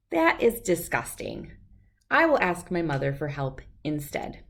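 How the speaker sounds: lively storybook read-aloud with voices; reading to children. A narrator's reading. Reader sharing a picture book with children, lively storytelling. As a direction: read it like to a room of kids.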